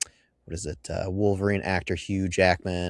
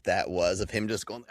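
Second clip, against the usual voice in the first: ordinary talk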